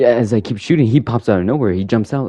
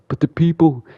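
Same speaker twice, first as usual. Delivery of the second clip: high-pitched mock objection; acted protest; 10 semitones higher than usual. Character objecting to Jim's plan, high mock protest. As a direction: voice another man's protest way up high.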